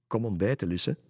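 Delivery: mother calling her daughter to breakfast, calling. Acted. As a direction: call her in from the house. Mother calls from inside.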